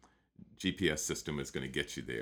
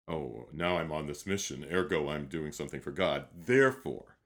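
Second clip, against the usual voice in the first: mock self-important; 5 dB louder than usual. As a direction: declare it like a self-appointed missionary. Mocks a self-important sense of mission.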